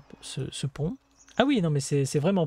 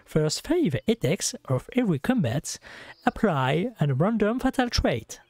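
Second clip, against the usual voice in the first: slow, careful English with a thick French accent; self-mocking French accent on English words. Shown as a demonstration. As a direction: read it out slowly in very French English. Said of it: "vous entendez mon super accent".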